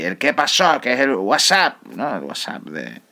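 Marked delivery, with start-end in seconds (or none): 0.2-0.8 Canarian greeting. Retold or imitated. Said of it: "uno de los saludos más canarios".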